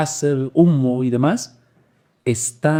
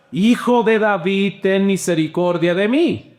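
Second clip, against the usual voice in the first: crying out more; 6 semitones higher than usual. Acted. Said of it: "clamaba mucho más".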